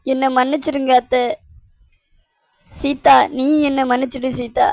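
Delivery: high-voiced, hammed-up remorse; overcome with emotion. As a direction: gush an overwhelmed apology. Acted tearful, overjoyed apology to family.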